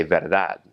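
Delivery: "verdad" ending on a d, with no "jee"; Spanish pronunciation. Shown as a demonstration. Teacher contrasting Spanish with Portuguese, Spanish pronunciation. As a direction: say "verdad" as ver-DAHD, Spanish way. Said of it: "in Spanish, you just say".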